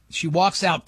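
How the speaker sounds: ordinary delivery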